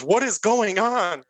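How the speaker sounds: high, slow baffled question; surprised. Retold or imitated. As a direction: act stunned at the chaos. Bystander voiced in story.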